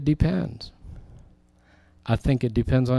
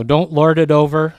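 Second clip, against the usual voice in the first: emphatic command; 3 semitones higher, 7 dB louder than usual. Real, not acted. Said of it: "sermon climax".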